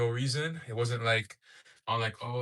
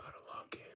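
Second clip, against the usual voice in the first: hushed, breathy, barely voiced whisper. Starting a live stream and about to log in: whispering. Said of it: "Why am I whispering?".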